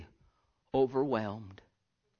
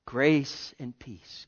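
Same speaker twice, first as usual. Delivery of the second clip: slow blessing; much slower than usual. Real, not acted. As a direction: draw out each word gently.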